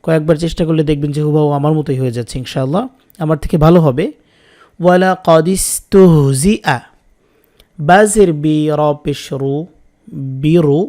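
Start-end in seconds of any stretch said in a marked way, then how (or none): 4.8-6.8 ওয়ালা কাদিস তুহ জি আ said clearly, syllable by syllable; model word. Shown as a demonstration. Teacher models the word for viewers to repeat. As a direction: give the learner ওয়ালা কাদিস তুহ জি আ to copy. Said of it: "একটা শব্দ যখন আমি বলবো".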